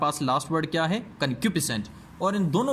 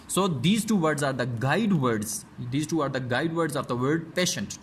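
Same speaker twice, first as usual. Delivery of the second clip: very slow, word-by-word reading for students; slow textbook reading; much slower than usual. Shown as a demonstration. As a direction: read it out slowly like dictation. Teacher reads English aloud. (धीमी आवाज़ में पाठ पढ़ना, शब्द-दर-शब्द)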